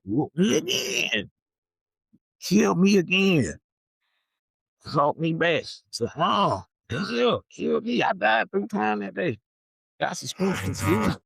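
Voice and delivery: high, drawn-out comic crying; mock wailing. Comic retelling a childhood whipping, mock wailing. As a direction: wail it high, hammed-up and tearful.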